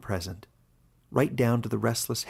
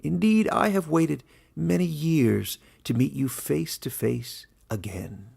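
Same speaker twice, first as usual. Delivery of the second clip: playful; 5 semitones higher than usual. Acted. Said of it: "with a strange playfulness".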